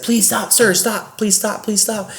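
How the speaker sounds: high, soft pleading voice; pleading Gary. Retold or imitated. Gary begs the angry guest: high pleading voice. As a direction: beg the guest to stop. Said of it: "He's like".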